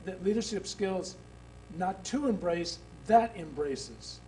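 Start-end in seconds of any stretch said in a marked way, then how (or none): 1.8-4.2 "that embraces" said slowly, word by word; stress on that. Shown as a demonstration. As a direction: lean on "that" in "that embraces". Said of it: "I would like to change one word".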